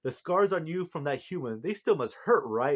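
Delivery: high-pitched mock concern; cocky retold taunt, voice lifted; cocky teasing. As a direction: needle someone with cocky fake sympathy. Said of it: "just being his, you know, cocky self".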